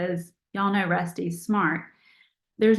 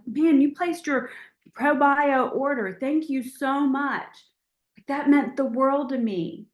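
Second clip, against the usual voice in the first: grateful; 4 semitones higher than usual. Shown as a demonstration. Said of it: "graciousness and gratitude of like".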